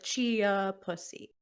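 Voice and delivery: "chia" said clearly as CHEE-uh, not cheetah; careful pronunciation. Shown as a demonstration. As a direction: correct the misheard "chia", sounding out both syllables. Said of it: "No, ch-, chia".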